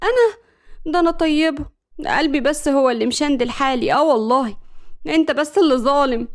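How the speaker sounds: mock-innocent protest, lifted a little; put-on innocence, lightly done; feigned innocence. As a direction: play the wronged sweet girl. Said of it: "ملك ببراءة مصطنعة".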